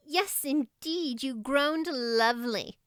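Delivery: put-on slow, gently reassuring girl. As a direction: soothe a nervous friend, slowly. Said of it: "assured Diana".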